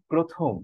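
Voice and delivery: প্রথম with pro-, an o after the pr; model pronunciation. Shown as a demonstration. Teacher gives students an example word, model pronunciation. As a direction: sound out প্রথম as "pro-thom". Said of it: "তাহলে সেটা হয়ে যায় প্র".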